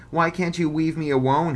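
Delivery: put-on high, loud lisping baby talk; mock him like a toddler. Bully mocking Bug's plea in high baby voice. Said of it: "he said in a baby voice".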